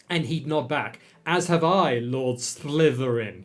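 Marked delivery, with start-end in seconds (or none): 1.3-3.4 a wobbly attempt at a lisp. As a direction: try a lisp and half fail. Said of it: "I can't do a lisp".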